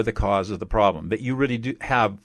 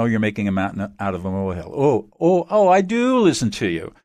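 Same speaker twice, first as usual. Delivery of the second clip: dismissive invalidation. Retold or imitated. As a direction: toss off the feelings like they're nothing. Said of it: "the typical emotional invalidation".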